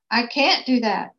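a touch of an anguished protest; lightly cried-out refusal; crying out. Acted. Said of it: "cried the king".

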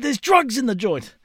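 high-pitched mock accusation; worked-up old dad, lightly acted; imitated fired-up alarm. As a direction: imitate an old man announcing a scandal. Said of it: "He was that fired up".

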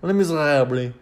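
Les Miserables with an overdone guttural French R; mock-proper French Les Miserables; throaty French pronunciation. Shown as a demonstration. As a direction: gargle the R in Les Miserables, as if about to retch. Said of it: "when you say that properly".

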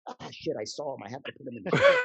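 mock guilty grumble, sudden loud finish; a neurotic showrunner caught out, ending loud; Larry David beat. Imagined Larry grumbling on seeing the actor, mock guilty. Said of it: "this classic Larry David beat".

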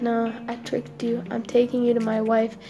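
soft, subdued admission; guilty confession. Acted. Crocodile confessing trick to monkey, guilty. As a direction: confess it reluctantly and quietly.

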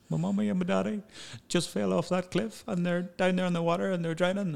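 wysoki głos małej dziewczynki; high little girl voice. Retold or imitated. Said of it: "She goes".

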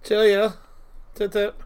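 mock British pleasantries; bad British accent. Joining friends mocking British speech, fake British accent. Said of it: "trying to do a British accent".

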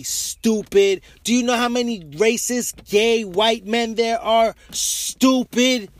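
loud, angry tirade hammering each point; heated ranting. Real, not acted. Ranting at the camera to gay black viewers, angry and loud.

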